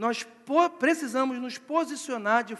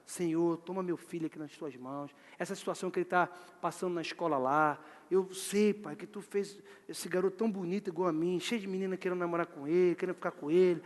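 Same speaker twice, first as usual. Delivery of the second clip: father praying; 6 semitones lower, 8 dB quieter than usual. Acted. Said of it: "vamos orar".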